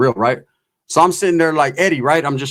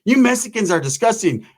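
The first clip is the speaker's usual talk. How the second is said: higher mock-disgusted woman's voice; lightly voiced disgusted woman; 6 semitones higher than usual. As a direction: mimic her offended complaint.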